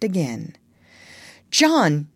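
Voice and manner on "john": put-on high child's call, rising in urgency; crying out. A narrator's reading. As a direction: call your sleeping brother, louder each time. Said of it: "Michael would cry".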